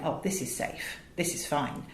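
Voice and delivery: hushed, muttered self-reassurance; mild imitation of a calm inner voice; soft inner voice. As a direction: brain telling itself it's safe, murmured. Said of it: "a bit of your brain's going".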